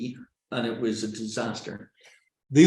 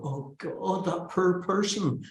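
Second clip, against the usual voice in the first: softer, higher sympathetic murmur; pitying; 4 semitones higher, 5 dB quieter, slower than usual. Acted. Audience pitying a nervous speaker inwardly, soft and sympathetic. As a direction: wince softly for the struggling speaker. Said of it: "they're feeling sympathy for you".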